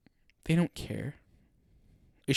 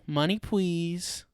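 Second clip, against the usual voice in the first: slow greedy demand; 6 semitones higher, much slower than usual. Retold or imitated. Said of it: "Is that girl".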